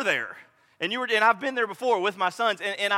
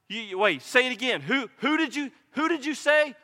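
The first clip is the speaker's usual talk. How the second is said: higher-pitched, stammering questions; eager disbelief; 5 semitones higher than usual. Acted. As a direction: ask urgently, tripping over the words. Acting out Bartimaeus hearing the news.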